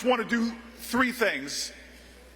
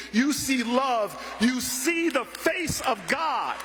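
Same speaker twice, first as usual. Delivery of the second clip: slowing down and building to a preaching call; rising fervor; 2 semitones higher, much slower than usual. Retold or imitated. Tenant president lifting Booker up with a slow, fervent build. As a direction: swell it like a sermon climax. Miss Jones preaching about hope.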